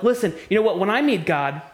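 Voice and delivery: hammed-up indignant rant at God; mock defiant complainer. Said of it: "say something like this".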